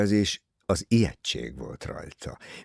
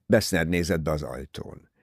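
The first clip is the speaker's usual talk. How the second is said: ordinary delivery, nothing marked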